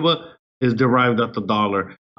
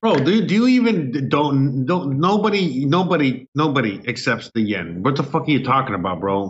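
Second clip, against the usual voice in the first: exasperated. Real, not acted. Incredulous argument about the yen.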